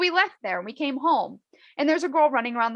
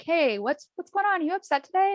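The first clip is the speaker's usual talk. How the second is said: high-pitched, prying check-in; playfully overeager concern, lifting into questions; aggravating friend; 7 semitones higher than usual. Acted. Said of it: "that, an aggravating friend".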